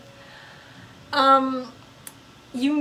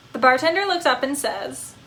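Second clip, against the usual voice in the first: a happy pup who can't sit still; eager talking dog. Acted. Dog telling a joke.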